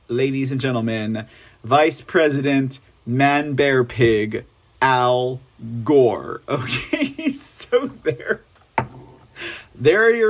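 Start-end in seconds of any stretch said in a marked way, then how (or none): 0.1-6.4 mock announcer. Deep mock announcer intro.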